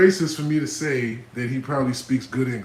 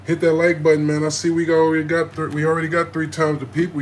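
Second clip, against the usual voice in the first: hype call; 4 semitones higher, 5 dB louder than usual. Real, not acted. Hyping live stream viewers.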